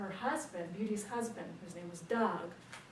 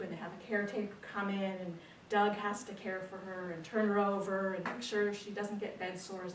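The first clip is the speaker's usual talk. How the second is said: ordinary delivery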